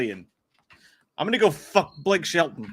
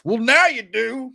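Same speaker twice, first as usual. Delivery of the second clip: mock adoring; 7 semitones higher, 4 dB louder, slower than usual. Hyped reply to a chat viewer.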